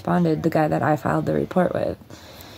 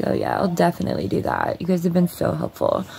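sarcastic. Retold or imitated. Mocking useless police.

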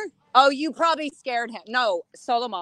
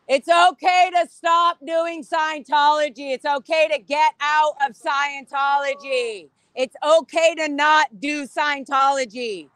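protest shout. Real, not acted. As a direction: call the slogans out to the building. Shouting slogans at passing members.

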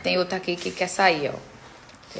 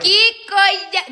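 higher, drawn-out "Que coisa"; slow, higher cry of amused disbelief; amused exasperation; 10 semitones higher, 3 dB louder, much slower than usual. Real, not acted. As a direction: stretch it out, comically fed up. Exasperated at the dog.

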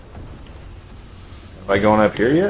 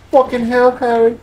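squeaky high mock repeat; 13 semitones higher than usual. Shown as a demonstration. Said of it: "repeated plain before".

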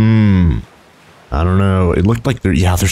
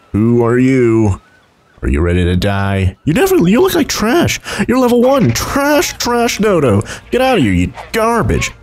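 mock trash talk; 4 semitones higher than usual. Taunting a weak dodo.

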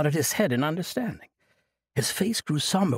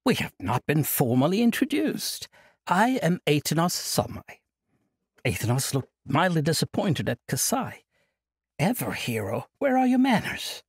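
put-on jovial old monk; 3 semitones higher than usual. Old monk cheerfully refusing Kasai's plea, jovial. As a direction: laugh off the burden like a merry elder. Monk formal then scolding.

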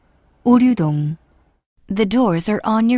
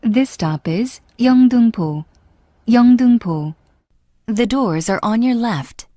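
over the intercom; 5 dB louder than usual. Real, not acted. English subway announcement on PA.

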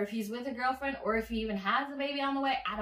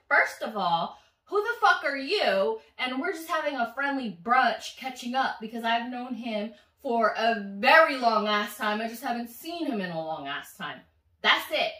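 angry comeback; 5 dB louder than usual. Retold or imitated. Snapping at the other woman.

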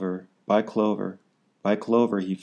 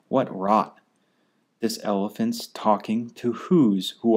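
mock shouting. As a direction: heckle him lightly, like rude monkeys. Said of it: "came shouting".

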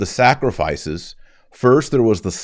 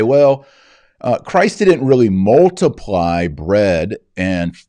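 hammed-up dismissive explainer, in a half-sarcastic tone; mocking heretic voice. Priest mimicking modernist heretics to his flock, mildly mocking. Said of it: "you'll hear modernist heretics, naturalists, who will say".

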